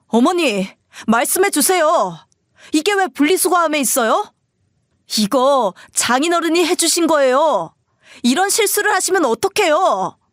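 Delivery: high, agitated pleading demand; acted outburst, pitch climbing without real shouting; angry outburst. A narrator's reading. Husband demanding answers from his mother about the box, angry outburst. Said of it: "남편은 상자를 들고 버럭 소리를 질렀어요".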